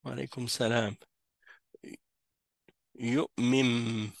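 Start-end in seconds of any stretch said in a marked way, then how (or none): 3.0-4.1 "Yu'mim" with a doubled, humming M; noun pronounced as mim. Shown as a demonstration. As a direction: show the held M sounds in "Yu'mim". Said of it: "c'est comme s'il y avait deux mims".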